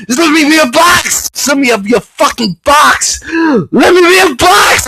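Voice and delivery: theatrical wailing demand; hammed-up plea. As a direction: beg like a tragic heroine. Melodramatic pleading shout.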